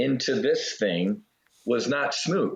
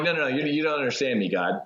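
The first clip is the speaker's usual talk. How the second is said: insistent to God; 2 semitones higher, faster than usual. Retold or imitated. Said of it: "like me talking to God".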